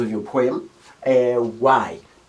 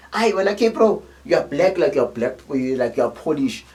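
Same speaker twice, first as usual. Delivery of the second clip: playground teasing. Retold or imitated. Kid teasing a friend in the hood, mocking. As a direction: rib a friend with a cheeky insult. Kids trading insults in hood.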